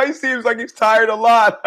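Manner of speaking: mocking guy cracking himself up; laughing. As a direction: say it through big mock guffaws. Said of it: "the guy's laughing like".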